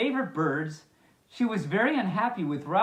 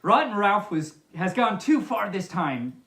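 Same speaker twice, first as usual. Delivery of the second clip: mild bellow; 4 dB louder than usual. Acted. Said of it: "bellowed Father".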